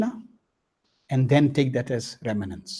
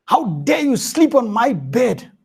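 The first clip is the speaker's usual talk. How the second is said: higher, louder furious demand; furious boss; 7 semitones higher, 4 dB louder than usual. Acted. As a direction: scold the maid in rage. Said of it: "he was furious".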